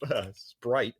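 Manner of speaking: mock Zelda item pickup; Link item fanfare. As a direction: hum the item-get jingle. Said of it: "like he's Link from the Zelda games".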